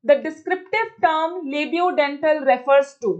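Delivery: slow, careful reading of a test question. Acted. Teacher reads the exam question aloud slowly. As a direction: read it out word by word for the class.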